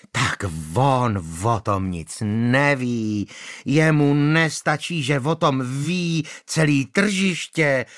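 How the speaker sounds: slow, mildly shrill sarcasm; a hint of shrill widow. Manda sneering back at the magistrate. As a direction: sneer it slowly.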